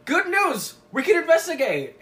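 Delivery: mock-excited, high and loud; bursting in with big news, playfully overdone; excited announcement.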